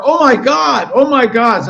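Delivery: high, loud oh my God squeal; gushing yell. Acted. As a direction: keep squealing as you approach. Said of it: "wave and yell more".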